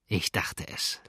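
quiet, knowing smile in the voice; smiling. A narrator's reading. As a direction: say it softly through a smile. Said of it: "lächelte der Kapitän".

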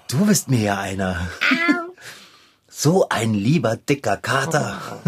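fond laughing words to a pet; laughing tenderly. Acted. Laughs while petting cat.

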